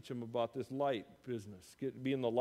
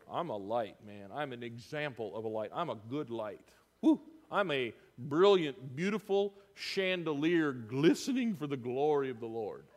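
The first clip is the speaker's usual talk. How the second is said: lightly hammed-up bragging, lower; mock boasting; 3 semitones lower than usual. Proud churchgoer bragging about being a light, mildly hammed up. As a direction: puff yourself up, a touch pompous. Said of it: "that would say".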